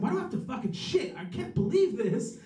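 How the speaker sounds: retold fit of indignation; mad. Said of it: "I was mad about it".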